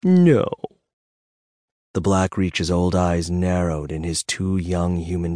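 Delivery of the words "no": a high, loud, sugary refusal; sweetly defiant. A narrator's reading. Bob refusing to hand over the dragon, sweetly defiant. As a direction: smile through a flat-out no. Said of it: "Bob smiled sweetly".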